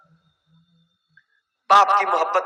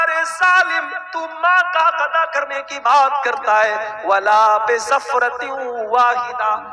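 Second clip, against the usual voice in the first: retold rebuke of a son who thinks he has repaid his mother, raised and stern; 3 semitones higher than usual. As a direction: scold the boastful son sharply, voice up. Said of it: "کہا".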